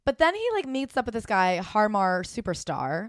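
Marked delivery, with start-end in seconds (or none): 1.6-3.1 the artist's name slow, syllable by syllable; halting name reading. Real, not acted. Host unsure of the DJ's name, drawn out haltingly. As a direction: feel out the name slowly, unsure what syllable follows. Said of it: "did not know what syllable was coming next".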